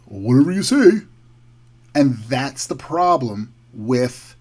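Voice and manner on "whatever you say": mock caving in. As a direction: imitate someone giving in at once. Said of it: "they're gonna cave".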